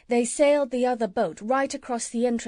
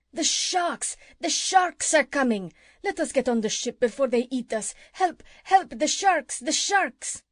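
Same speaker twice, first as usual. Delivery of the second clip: terrified cries; 5 semitones higher than usual. A narrator's reading. Drowning pirates crying out in fear of the sharks, panicked. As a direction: scream for help as the sharks close in. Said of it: "they all cried out in great fear".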